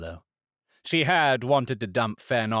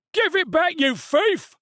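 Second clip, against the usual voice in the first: angry stallholder; 4 dB louder than usual. A narrator's reading. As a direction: spit out each word. Stallholder yells at woman.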